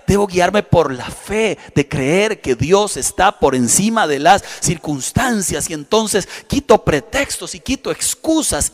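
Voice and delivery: slow, deliberate preacher's delivery; slow solemn preaching. Acted. Pastor closing the point for his flock, slow and deliberate. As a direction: lay down each phrase slowly.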